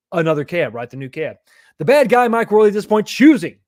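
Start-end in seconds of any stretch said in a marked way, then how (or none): 1.8-3.6 mock villain announcement. Real, not acted. Hyping a viewer's villain name.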